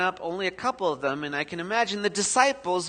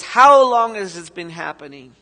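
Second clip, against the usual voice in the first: doctor's question; 11 dB louder than usual. Shown as a demonstration. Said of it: "That sounds like a doctor".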